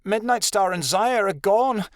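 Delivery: high, slow whine; whining. A narrator's reading. Adelaide tells the others her friends are gone, whining. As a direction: whine it out slowly. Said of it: "Adelaide whined".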